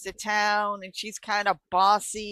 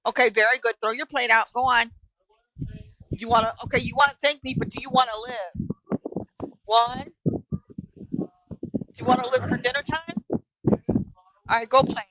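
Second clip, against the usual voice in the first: firm, louder parent giving orders; real parental scolding; 3 semitones higher, 3 dB louder than usual. Real, not acted. Parent to a child at dinner time, sternly counting. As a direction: interrupt the call to lay down the law.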